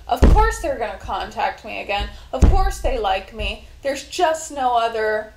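emphatic, assured self-reassurance, easing off by the end; punchy, confident affirmations; positive self-talk. Acted. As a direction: insist to yourself that it is certain. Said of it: "communicate positively with myself".

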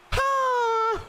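sudden very high "ha"; high cry. Real, not acted. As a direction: let out a long, high yelp. Cry after a missed chance.

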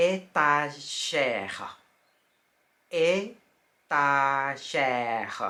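slow French étagère; French pronunciation. Shown as a demonstration. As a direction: draw out étagère for learners. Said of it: "ก็จะอ่านว่า".

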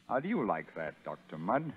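soft, mocking taunt; quiet gloating. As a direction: lean in and relish it. Sergeant gloats at Mudd.

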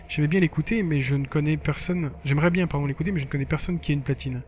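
lively reading of a blog entry; lightly performed text narration; diary read-aloud. Acted. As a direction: read it out like a casual teen diary. Reads game diary aloud.

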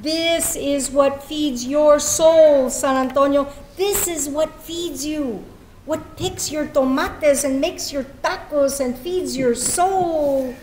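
slow, solemn spoken-word; slow poetic address to San Antonio; poem reading. Acted. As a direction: speak to the city with reverence.

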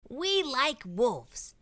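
very slow, ominous ad read; sly ad voice. Acted. Hunters' magazine ad, slow and ominous. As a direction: deliver it as a menacing slogan.

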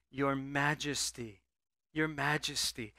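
soft, slow, reverent your majesty; bow your head and say it gently; respectful address to a king. Retold or imitated. Servants humbly addressing the king, softly and slowly. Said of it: "they spoke to the king in respect".

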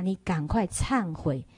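put-on the old monk gravely tells him to repent; stern warning. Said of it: "很严肃地告诉他". (严肃缓慢地告诫)

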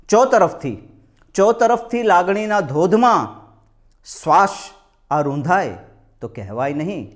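slow declaimed couplets, each phrase set apart; lilting Gujarati mushaira delivery; ghazal recitation. Acted. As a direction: lift the key word, then let the refrain fall.

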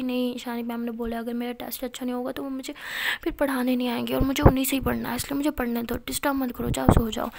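loud, insistent pushback, rushing the middle; loud and fast, don't let her interrupt; stubborn refusal. Acted. Pari tells her sister to stop disturbing her, loud insistent refusal.

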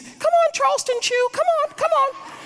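very high, loud, sing-song calling; high-pitched pet voice. Retold or imitated. Wife calling the dog back inside in a very high pet voice. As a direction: coo the dog's pet name way up high. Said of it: "uses a higher pitched voice".

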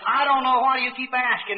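mildly exasperated mother. Retold or imitated. Mother snaps at her boy's endless question, mildly exasperated. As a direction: let impatience lift the pitch.

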